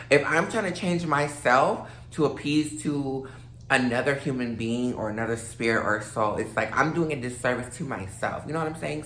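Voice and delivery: slightly slurred after champagne; a little tipsy and rambling; tipsy slurring. Real, not acted. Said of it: "I'm sorry if I sound, like, a little slurry".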